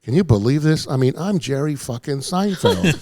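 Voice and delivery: mock outraged star; imitated incredulous comedian, stretching out the last words; Jerry Seinfeld. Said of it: "Jerry's commentating voice going".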